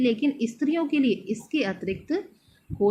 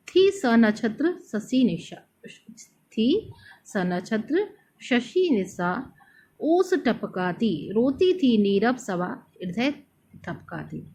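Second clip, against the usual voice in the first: poem recital. Shown as a demonstration. Recites the night-scene verse. (धीमा, भावुक काव्य पाठ)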